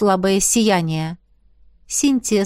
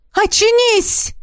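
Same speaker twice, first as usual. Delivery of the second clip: deafening, much higher desperate cry; desperate shout; 13 semitones higher, 4 dB louder than usual. A narrator's reading. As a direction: scream it to wake her. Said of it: "оглушительный, полный отчаяния крик". (отчаянный оглушительный крик)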